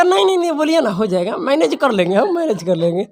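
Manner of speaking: high protesting boyfriend, lightly voiced; mock eager boyfriend. Teacher imitating a boy promising to manage everything, high and eager. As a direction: jump in high, brushing off her worry. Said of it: "कहता".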